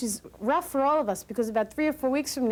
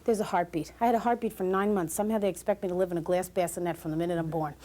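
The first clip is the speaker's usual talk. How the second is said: put-on relieved baby; 5 semitones lower than usual. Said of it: "I think the baby's saying".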